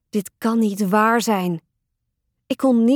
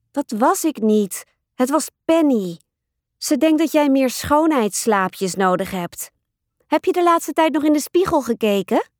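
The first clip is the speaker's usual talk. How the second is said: lightly voiced, higher-pitched little sister; cheeky little sister; 5 semitones higher than usual. Brianna blaming her puppet Penny and teasing her sister, cheeky. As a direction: taunt like a cheeky younger sister.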